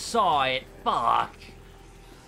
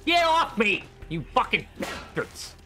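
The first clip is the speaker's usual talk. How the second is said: panicked yell; 5 semitones higher, slower than usual. Real, not acted. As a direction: shove them off with your voice. Attacked by enemies.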